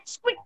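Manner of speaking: short, high, soft squeak; rat squeak. Shown as a demonstration. Teacher showing children the sound of a rat, high squeak. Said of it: "what is the sound of rat".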